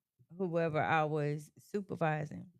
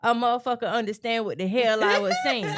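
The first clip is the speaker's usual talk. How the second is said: raised voice, higher and louder; forceful demonstrated delivery; 3 semitones higher, 6 dB louder, faster than usual. Shown as a demonstration. Supervisor showing the tone that finally got understood, forceful and raised. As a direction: drive it home with exasperated force. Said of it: "finally, when I said it like this".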